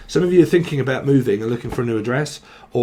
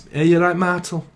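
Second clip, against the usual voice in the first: imitating grandma's northern greeting; higher, northern English grandma voice; lightly voiced northern grandma; grandma's northern accent; 4 semitones higher than usual. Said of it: "she used to talk like that".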